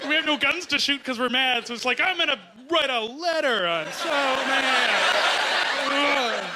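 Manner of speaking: mock outrage. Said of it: "gets Canadians pissed off is like".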